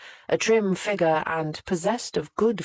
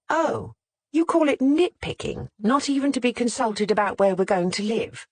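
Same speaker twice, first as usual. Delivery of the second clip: sharp, raised sniping retort; 6 semitones higher than usual. Acted. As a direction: snipe it back, pitched high. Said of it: "sniped back".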